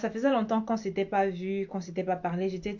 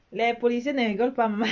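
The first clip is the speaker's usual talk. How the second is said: a laughing half-joke about the police; 3 semitones higher, faster than usual. Real, not acted. Vlogger laughing as she warns her mum about police fines.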